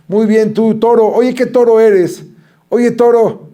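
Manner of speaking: imitating waiters. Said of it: "decían ellos".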